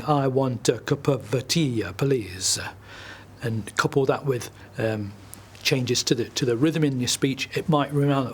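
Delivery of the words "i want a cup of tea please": "uh" tacked onto the words of "I want a cup of tea, please"; "please" stretched by an added "uh"; added "uh" sounds. Shown as a demonstration. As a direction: say "tea" and "please" with an extra "uh" after each. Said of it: "you might add "uh" to everything".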